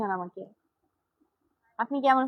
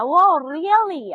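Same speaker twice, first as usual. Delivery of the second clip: drawn-out surprised really, higher and louder; 5 semitones higher, 7 dB louder, much slower than usual. Real, not acted. A viewer says she looks Chakma, she answers drawn out and surprised. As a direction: stretch it out in amused disbelief.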